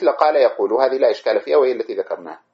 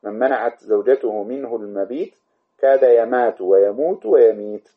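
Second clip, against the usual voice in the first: verse recitation. Shown as a demonstration. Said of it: "قال".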